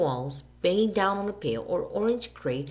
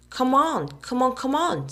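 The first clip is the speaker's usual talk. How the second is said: high, loud hurrying; impatient hurry; 8 semitones higher, 6 dB louder than usual. A narrator's reading. Alan hurrying Billy to eat, impatient. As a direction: rush him along. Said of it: "said Alan".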